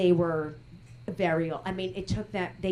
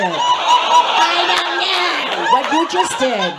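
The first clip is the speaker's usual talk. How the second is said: I don't know whined high and loud, higher than the audience member; mocking Jewish whine; 8 semitones higher, 7 dB louder than usual. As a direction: mimic the audience member's shrug, whiny and loud. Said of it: "What you just did was so Jewish".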